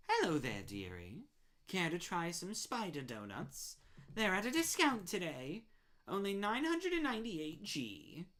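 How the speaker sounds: a lightly voiced sugary shopkeeper; a hint of a syrupy saleswoman; sweet spider baker. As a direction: sell the donuts sweetly.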